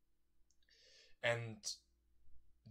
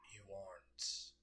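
soft voice; 2 semitones lower, 6 dB quieter, slower than usual. Acted. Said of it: "another voice came out and said".

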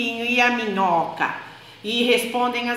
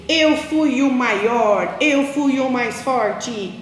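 slow, proud boast, a bit louder; boasting mouse; 3 dB louder, much slower than usual. Acted. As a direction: drag it out like a show-off. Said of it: "o rato disse".

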